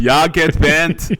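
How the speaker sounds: put-on German accent. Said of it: "angry Germans".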